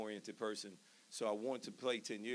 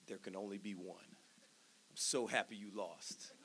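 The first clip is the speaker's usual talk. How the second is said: laughing quote; 2 semitones lower, 5 dB quieter, slower than usual. Retold or imitated. Friend's teasing call, retold laughing. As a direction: chuckle through the friend's taunt. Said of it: "He was like".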